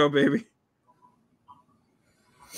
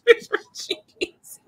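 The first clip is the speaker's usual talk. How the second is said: breaking up mid line; can't keep a straight face; laughing; slower than usual. Real, not acted. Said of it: "I can't say that with a straight face".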